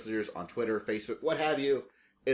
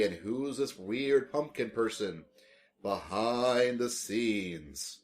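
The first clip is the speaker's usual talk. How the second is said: spooky voice; slower than usual. Pretend. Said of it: "I really like making this spooky voice".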